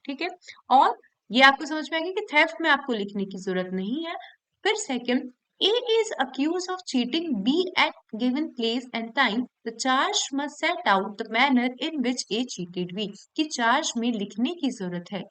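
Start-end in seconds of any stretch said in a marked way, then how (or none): 5.6-13.1 slow, deliberate reading of legal text; slow, careful reading of a law clause to students; slow statute reading. Shown as a demonstration. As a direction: read the section out word by word, slowly. Reads illustration from bare act.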